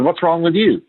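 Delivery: accusing tone. Retold or imitated. Exasperated dad asks his downcast son home from class, in an accusing tone. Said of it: "in that tone of voice".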